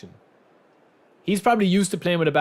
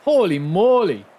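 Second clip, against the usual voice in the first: surprised; 5 semitones higher, 5 dB louder than usual. Real, not acted. Reacting to laggy play.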